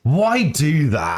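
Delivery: high, drawn-out mock outrage; indignant protest. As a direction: wail it in exasperated disbelief. Indignant reaction to the spoiler.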